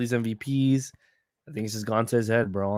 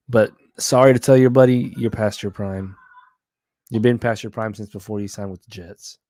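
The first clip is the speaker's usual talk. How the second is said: passionate rant; 2 semitones lower, 7 dB louder than usual. Real, not acted. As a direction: tell him straight to his face. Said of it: "Very passionate".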